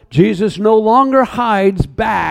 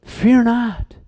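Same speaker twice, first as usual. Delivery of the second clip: soft, calm and tender; familiar gentle voice; 2 semitones higher, 4 dB quieter, much slower than usual. Acted. Preacher voicing Jesus telling John not to fear, softly and gently. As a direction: speak as a trusted friend, softly. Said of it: "And then with a familiar voice".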